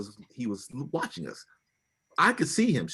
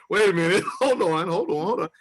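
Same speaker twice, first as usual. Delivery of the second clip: flustered protest; 7 semitones higher, 5 dB louder than usual. Retold or imitated. Husband trying to halt his wife's tirade, flustered. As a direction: cut in, startled and insistent.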